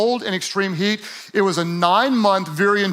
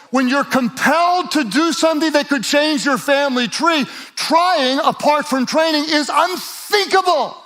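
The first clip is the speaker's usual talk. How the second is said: preaching at full force; 5 semitones higher than usual. Acted. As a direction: pour it on the congregation like a revival sermon.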